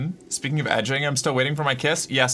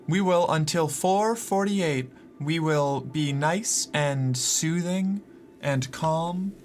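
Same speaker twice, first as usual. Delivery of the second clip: calm soothing voice; slower than usual. Pretend. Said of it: "I will do a calm, soothing voice".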